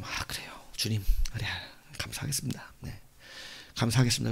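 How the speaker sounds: very soft, reluctant submission; hushed reply, holding the temper down; suppressing anger. Retold or imitated. Angry traveller submitting to the Lord, hushed and restrained. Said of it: "화를 누르면서".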